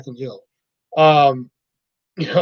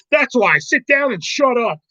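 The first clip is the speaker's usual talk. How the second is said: high, slow dismissive bark; mock the coach telling him to sit; hammed-up movie coach put-down; coach dismissal quote; 5 semitones higher than usual. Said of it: "He's like".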